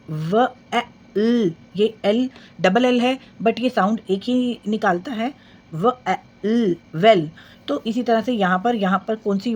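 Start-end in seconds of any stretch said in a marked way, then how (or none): 0.1-7.3 slow letter-by-letter blend ल, ए, ड into लेड; phonics sounding out. Shown as a demonstration. Teacher sounding out a word for young learners, slow and clear. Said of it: "three letter words".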